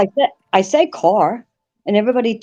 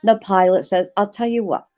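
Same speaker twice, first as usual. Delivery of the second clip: put-on Maine accent joke telling. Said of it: "So I gotta get my best accent".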